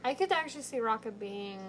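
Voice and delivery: first take with a light British accent. Shown as a demonstration. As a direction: say it lightly British, then repeat it. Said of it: "what was my accent?".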